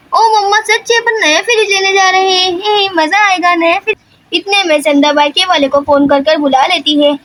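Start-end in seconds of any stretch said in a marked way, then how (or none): 0.1-4.0 put-on excited child. Child hears about new fridge.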